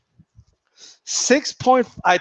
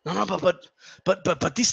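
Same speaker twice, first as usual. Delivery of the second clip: mock meek protest; 2 semitones lower, 9 dB quieter than usual. Mimicking fans' weak protest.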